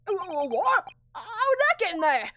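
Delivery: high, stammering disbelief; flustered witness. Acted. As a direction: sputter in a shocked character voice. Witness shocked by the disc.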